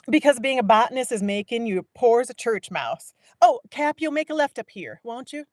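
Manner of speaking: high, loud bossy woman; high mocking woman talking fast; Viola. A narrator's reading. Viola voiced in story.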